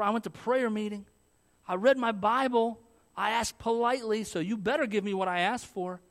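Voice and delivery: a hint of a spoiled child bargaining with God; Christian talking to God, mildly mock entitled; entitled believer. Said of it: "I think of us as Christians".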